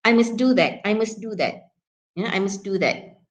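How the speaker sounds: MUST kept light, no threat; unstressed MUST. Shown as a demonstration. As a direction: pass over MUST without emphasis. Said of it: "you would just simply use must".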